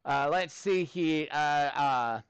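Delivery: put-on Australian accent; Aussie accent. Maths teacher asking students for help, put-on Aussie accent. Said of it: "we'll do this in an Aussie accent".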